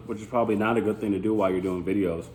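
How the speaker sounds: talking while chewing gum. Real, not acted. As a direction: chew gum through the words. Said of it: "while I have gum in my mouth".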